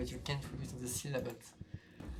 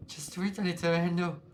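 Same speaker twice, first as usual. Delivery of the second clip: louder then dropping insistent order; impatient ghost; 3 semitones higher, 4 dB louder than usual. Acted. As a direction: push them to just read it. Ghost urges reading.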